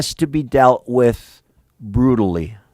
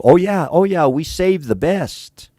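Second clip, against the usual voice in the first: mock excuse; 6 semitones higher than usual. Mocking Saul's excuse.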